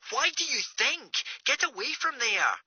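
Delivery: small, faraway voice down a phone line; Greer on the phone. Acted.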